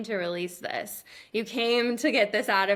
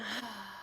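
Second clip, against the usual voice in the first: quiet trailing sigh; gentle release sigh; soft sigh; 11 dB quieter than usual. Shown as a demonstration. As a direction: let it go softly. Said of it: "you're gonna audibly sigh".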